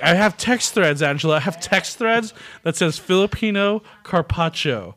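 retold protest. Retold argument with Angela.

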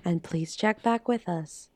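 lightly voiced cabin crew announcement; mock airline announcement, calm and even; flight attendant. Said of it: "You sound like a flight attendant".

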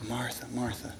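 soft, low, tender Martha Martha; gentle calling. Retold or imitated. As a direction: call her back in gently. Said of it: "He says".

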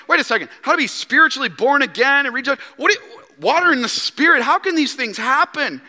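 quick, mildly flustered questioning; acted-out confusion, words tumbling out; baffled Nicodemus. Teacher of Israel questions Jesus about being born again, baffled. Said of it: "He goes".

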